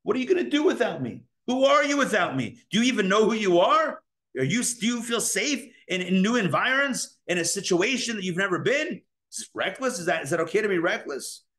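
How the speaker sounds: the inner Pharaoh nervously holding you back; worried inner Pharaoh. Retold or imitated. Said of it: "I'm like".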